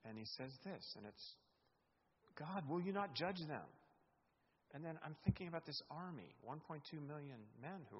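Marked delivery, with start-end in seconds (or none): 2.3-3.7 high, loud cry to God; loud high prayer; pleading cry. Acted. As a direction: call out for judgment. Voicing the king's prayer.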